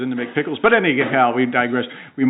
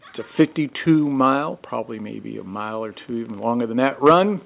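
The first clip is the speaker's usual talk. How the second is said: race announcer. Acted. Opening the day three race report, announcer delivery. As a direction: announce the race start with weight.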